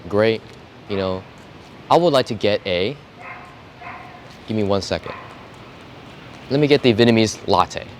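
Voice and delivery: measured order with long pauses; relaxed customer thinking through the order; slow and methodical. Shown as a demonstration. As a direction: take your time on every phrase. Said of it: "It's very slow, very methodical".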